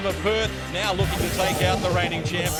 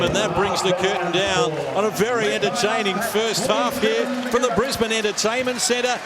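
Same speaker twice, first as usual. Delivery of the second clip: fast, rising live basketball call; live play-by-play. Acted. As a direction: call the half-time buzzer live. Live call to half time.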